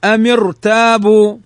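أم ارتابوا joined, thick r after the i; heavy ra. Shown as a demonstration. Teacher recites أم ارتابوا as exception, heavy ra. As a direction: join أم ارتابوا with a heavy r, last vowels held. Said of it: "إلا أنها فخمت".

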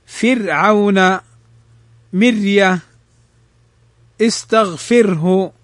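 فرعون, مرية, استغفره slowly, each r light; thin ra. Shown as a demonstration. Teacher models examples after kasra, thin ra. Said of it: "مكسورا رققت".

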